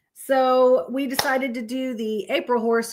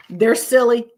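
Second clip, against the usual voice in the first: laughing; 2 semitones higher, 6 dB louder than usual. Real, not acted. Laughing at her drawings.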